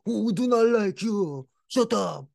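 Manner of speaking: high squeaky mock voice, broken English; mocking the neighbors outside his window, high mock voice. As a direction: lampoon the neighbors in a shrill whine. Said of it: "standing outside like".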